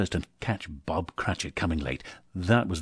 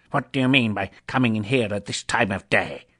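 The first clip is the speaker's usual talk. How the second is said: feigned gruffness; 4 dB louder than usual. Acted. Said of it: "as near as he could feign it".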